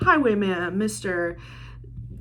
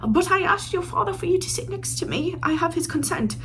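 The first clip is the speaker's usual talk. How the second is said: higher-pitched mock pleading suitor; over-eager suitor; 8 semitones higher, 4 dB quieter than usual. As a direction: plead in a high, put-on voice. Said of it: "Alex is literally trying so hard".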